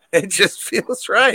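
slow, laughing repeat; laughing echo. Real, not acted. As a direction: savor it through a laugh. Echoing with a laugh.

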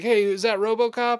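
high, loud mocking call-out; mock comedian taunt. Comedian teasing the burnt man, mock jeer. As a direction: jeer at him like a cocky comic. Retelling Key and Peele bit.

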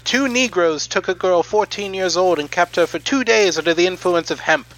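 put-on old timey announcer. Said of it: "do the rest of the podcasts that we do on that voice".

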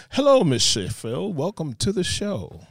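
usual speaking voice

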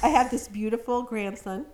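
stuffy nose from a bad cold; nasal voice. Real, not acted. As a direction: speak through a blocked nose. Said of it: "forgive me for my nasally voice".

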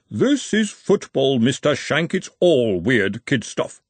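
pompous referee. Acted. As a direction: talk down to them like a prim referee. Referee answers slowly.

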